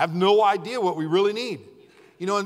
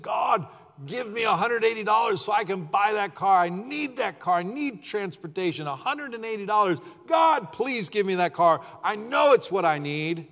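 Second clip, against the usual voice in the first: put-on pleading kid prayer; 4 semitones higher than usual. Kid praying for the car.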